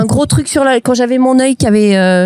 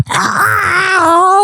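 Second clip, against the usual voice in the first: dinosaur roar; 7 semitones higher than usual. Pretend.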